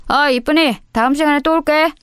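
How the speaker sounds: high-pitched sleazy flirt; flirty teasing. Acted. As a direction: sweet-talk while being sent away. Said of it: "희진이에게 찝쩍대는 것을 멈추지".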